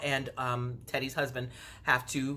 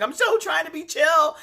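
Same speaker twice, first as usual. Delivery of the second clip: high, loud imitation of forced calm; mock trying-to-be-chill; 13 semitones higher, 7 dB louder than usual. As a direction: play it fake-relaxed. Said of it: "she's just like".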